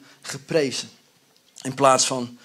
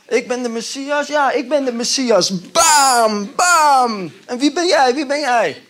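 Hollywood action hero; 8 semitones higher, 7 dB louder than usual. Pretend. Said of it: "Zo zou een Hollywoodfilm eindigen".

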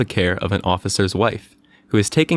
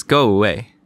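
angry cry; 5 dB louder than usual. Acted. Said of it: "cried Mary".

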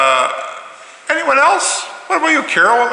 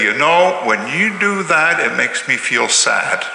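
slow, gentle and sincere; calm I-statement. Shown as a demonstration. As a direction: model calm words for a child. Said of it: "I would say to you that when your brother makes you angry".

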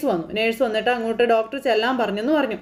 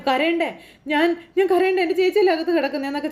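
higher, hammed-up protest; staged show; 6 semitones higher than usual. Uncle protesting to niece, a hammed-up grieving show. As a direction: put on a big show of grief. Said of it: "വലിയ show ഇറക്കുമ്പോൾ".

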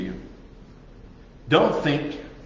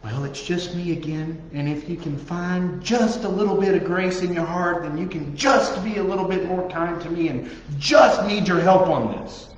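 higher, meek begging prayer; mock timid prayer; 3 semitones higher than usual. Preacher parodying an apologetic prayer, higher and meek. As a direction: plead to God timidly. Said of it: "Stop talking like that".

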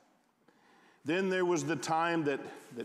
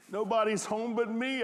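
put-on high-pitched blubbering child, understated; a touch of a little boy's blubber; mild blubber; 7 semitones higher than usual. A narrator's reading. Boy alone at home answers the operator, mild blubber. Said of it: "I blubbered".

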